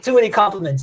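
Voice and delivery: a light mock French accent, sarcastic and amused. Sarcastic Frenchman Dylan dismissing compliments, in a mock French accent. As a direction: wave off the praise in a lightly hammed French accent. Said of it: "he's a sarcastic Frenchman".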